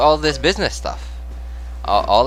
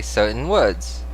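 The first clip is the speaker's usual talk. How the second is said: slow, fake-sounding British accent; attempted British accent; slower than usual. Shown as a demonstration. Streamer trying to say certain words, unconvincing British accent. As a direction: try these words in British. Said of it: "does not sound very British".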